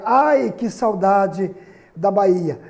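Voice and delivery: slow, longing "Ai, que saudade da Bahia"; exclamatory reading. Shown as a demonstration. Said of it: "Olha só". (leitura exclamativa, lenta e saudosa)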